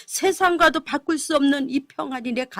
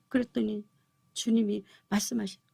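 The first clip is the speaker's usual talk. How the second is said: ordinary delivery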